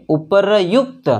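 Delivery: उपरयुक्त sounded out slowly as u-pa-ra-yukt; slow spelled-out उपरयुक्त; syllable by syllable. Shown as a demonstration. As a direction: stretch उपरयुक्त into separate syllables, r before y. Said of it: "क्या है पढ़ेंगे?".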